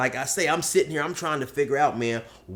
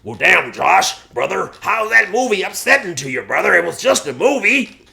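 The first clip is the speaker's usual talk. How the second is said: loud, baffled bro, rising higher; Polar Bear; 7 semitones higher, 7 dB louder than usual. Acted. Buddy puzzled by Josh's upset, loud baffled bro. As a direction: reason loudly with a weepy buddy. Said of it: "And then Polar Bear says".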